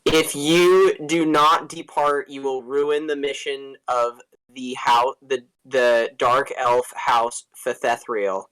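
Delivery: haughty dark elf. Acted. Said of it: "when you speak like that".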